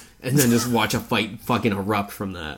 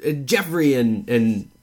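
flustered raptor; 4 semitones higher, 4 dB louder, slower than usual. Retold or imitated. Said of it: "it's like".

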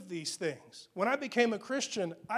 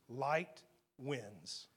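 low quiet statement; 7 semitones lower, 7 dB quieter than usual. Shown as a demonstration. Preacher summing up the verse, low and quiet. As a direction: drop low and soft on light wins. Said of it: "it's like this".

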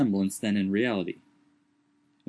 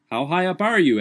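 louder, higher call up the tree; 7 semitones higher, 6 dB louder than usual. A narrator's reading. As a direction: shout up to the climber. Legrand calls up the tree.

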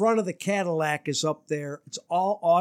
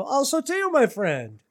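high-pitched and laughing through the words; laughing reply; 9 semitones higher than usual. Retold or imitated. Leo answering the finger with a laughing high reply. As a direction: cackle out the friendly curse.

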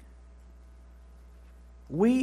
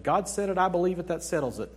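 quick, breezy bumper-sticker recital; rattled-off catchphrase, faster than usual; glib slogan; faster than usual. Retold or imitated. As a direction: toss it off like a slogan everyone knows. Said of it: "There's the bumper sticker that said".

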